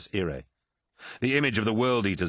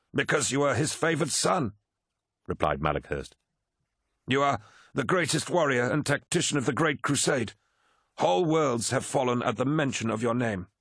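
higher, fervent courtier's voice; flattering Malakhurst; 6 semitones higher than usual. Acted. Malakhurst flatters the War Master, fervent. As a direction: heap praise on your master.

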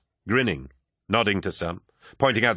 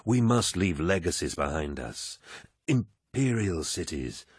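commanding warrior lord. Acted. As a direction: speak like a genial, mighty lord. Narrator voices Horus.

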